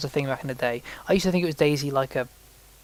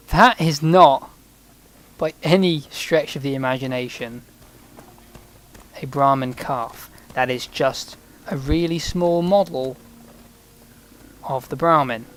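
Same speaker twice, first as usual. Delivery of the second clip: exasperated; 5 dB louder than usual. Real, not acted. Mock outrage at tiny calf model.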